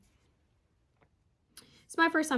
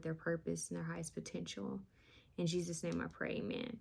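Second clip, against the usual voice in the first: soft, hushed prayer voice; 3 dB quieter than usual. Acted. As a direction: pray quietly and earnestly. Says a prayer.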